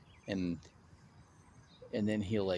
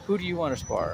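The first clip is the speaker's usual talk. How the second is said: Roy Senior challenging; 8 semitones higher than usual. Retold or imitated. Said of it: "Roy Senior's like".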